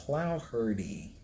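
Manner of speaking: Clouherty said slowly as "KLOW-her-tee"; practising the word. Shown as a demonstration. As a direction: sound it out carefully. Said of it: "I might be able to say that".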